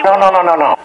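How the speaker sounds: high quick run of no; flustered no no no. Pretend. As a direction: scramble to stop her. Cuts off the clerk.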